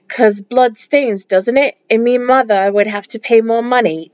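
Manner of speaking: light attempt at a Cockney accent. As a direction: quote it in a rough Cockney accent. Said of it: "That's my attempt at a, I don't know, Cockney accent".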